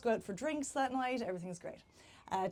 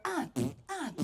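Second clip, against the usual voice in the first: short, sharp mock "ah" grunts; staccato comic moans; imitated climax grunts; 5 semitones higher than usual. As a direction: mimic two abrupt climax grunts. Imitates man climaxing, farting.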